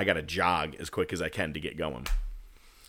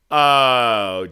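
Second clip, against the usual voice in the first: startled oh; 3 semitones higher, 10 dB louder than usual. Retold or imitated. Officer pulls out the bullet.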